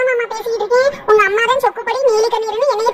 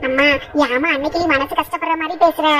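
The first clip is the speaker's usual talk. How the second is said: ordinary talk, nothing marked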